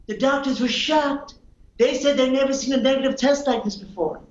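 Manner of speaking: lightly voiced Trump boasting; Donald Trump impression. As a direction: brag like Trump at a rally. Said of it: "impersonation of how the world is reacting".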